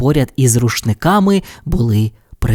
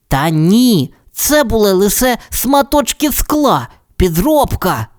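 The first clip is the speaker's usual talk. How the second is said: sorrowful; 9 semitones higher than usual. Acted. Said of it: "журливо сказав".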